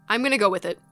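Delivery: usual speaking voice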